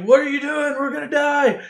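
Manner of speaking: high, loud alarmed protest; mock panic. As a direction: cry out as if doom is coming. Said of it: "And then they're like".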